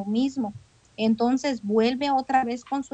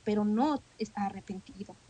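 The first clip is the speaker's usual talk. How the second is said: a real whisper to the congregation; whispered aside; 6 dB quieter than usual. Real, not acted. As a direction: hush it to a whisper. Preacher drops to stress point.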